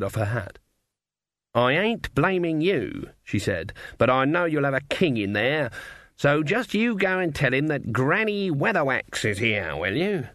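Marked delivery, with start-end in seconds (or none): 1.5-3.1 put-on slow, raised pitch for a stubborn old witch; a hint of a firm granny, drawn out; lightly voiced Granny Weatherwax. 4.0-10.3 a hint of a commanding old witch; lightly voiced Granny Weatherwax.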